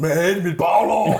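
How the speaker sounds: high, loud, drawn-out complaint; mock anguished wail. Injured athlete answering his coach's congratulations, hammed-up wail.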